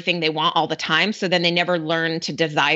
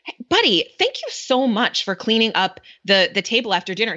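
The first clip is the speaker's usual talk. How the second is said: praising; 3 semitones higher than usual. Retold or imitated. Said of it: "I praise him for it".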